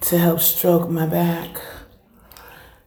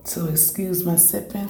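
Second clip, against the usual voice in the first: quiet aside; 5 dB quieter than usual. Real, not acted. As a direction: drop the voice for a quick aside. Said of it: "if you hear me sipping".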